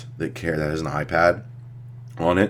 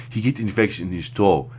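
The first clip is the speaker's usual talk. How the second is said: put-on African accent; 3 semitones higher than usual. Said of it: "I'll do an African one".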